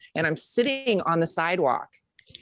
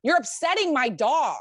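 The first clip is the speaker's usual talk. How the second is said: put-on higher prim old lady complaint; lightly voiced prim old lady; old lady scolding; 8 semitones higher than usual. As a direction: play the fussy neighbour.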